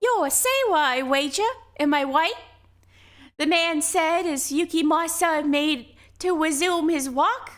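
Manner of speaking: put-on old fisherman voice. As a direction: play a slow, warning old local.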